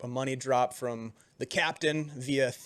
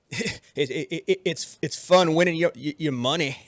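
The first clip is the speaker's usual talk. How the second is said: tipsy sailor; 4 dB louder than usual. Acted. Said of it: "takes a big swig of his drink and says".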